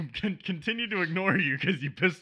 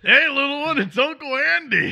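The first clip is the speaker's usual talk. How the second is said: a hammed-up creepy uncle greeting, louder and higher; 9 semitones higher, 10 dB louder than usual. To kids he just met, creepy uncle voice. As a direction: lay the fake sweetness on thick. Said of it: "No, that's creepy".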